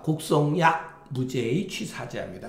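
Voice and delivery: 곡송 약 grouped, then 무죄의 after a break; pause after 약. Shown as a demonstration. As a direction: join 약 to 곡송 and pause before 무죄의. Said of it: "이렇게도 읽어요".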